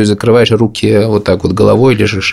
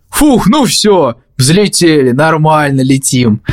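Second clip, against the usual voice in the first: relieved sigh of a passenger; 5 semitones higher, slower than usual. Retold or imitated. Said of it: "мужик сзади меня сидит и такой".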